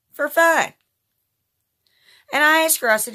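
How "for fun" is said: louder, higher outraged repeat; bitter outraged emphasis; indignant. Real, not acted. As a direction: hammer it home in disgust.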